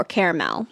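caramel said as CARE-uh-mel; three-syllable caramel. Shown as a demonstration. People say, like, caramel or caramel.

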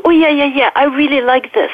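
a hint of the body's delighted voice; pleased inner animal. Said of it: "like a little animal inside of you that tells you".

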